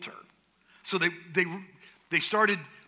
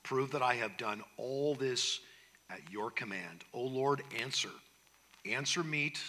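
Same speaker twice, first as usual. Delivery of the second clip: low, soft narrated prayer; praying; 5 semitones lower, 5 dB quieter than usual. A narrator's reading. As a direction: pray earnestly in a lowered, quieter voice. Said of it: "Elijah prays".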